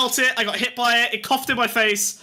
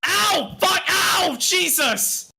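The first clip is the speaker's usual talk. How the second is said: high, pained yelps; freaking out; 7 semitones higher, much slower than usual. Pretend. Streamer tells co-hosts he is being hit, high panicked yelps. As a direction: cry out as if suddenly struck. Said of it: "what are you freaking out over".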